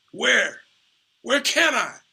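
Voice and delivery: mock heated plea, pushed way up; pleading outburst. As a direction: demand an answer from your friend. Charlie building to outburst.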